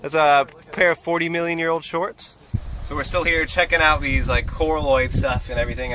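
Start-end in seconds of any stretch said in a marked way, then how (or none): 0.0-2.4 higher, teasing fake enthusiasm; playful mock amazement. Real, not acted. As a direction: tease him with big fake wonder. Teasing about forty-million-year-old shorts.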